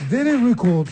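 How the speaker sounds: "Daily Record" said the English way. Shown as a demonstration. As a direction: show how to say it properly. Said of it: "Comment vous le diriez, vous, Pierre". (« Daily Record » prononcé à l'anglaise)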